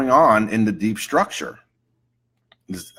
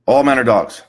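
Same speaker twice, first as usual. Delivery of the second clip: emphatic client outburst, somewhat louder; indignant client; 5 dB louder than usual. Acted. Client in therapy makes a sweeping claim, indignant. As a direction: blurt it out as a sweeping complaint.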